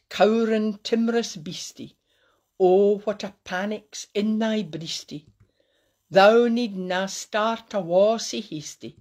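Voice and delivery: measured Scots verse reading; deliberate verse with falling line ends; poem recital. Acted. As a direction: recite it line by line, drawing out the opening. Recites To a Mouse.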